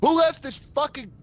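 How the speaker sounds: high, loud yell through the wall; hammed-up roommate shout; mock yell. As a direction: call out accusingly across the flat.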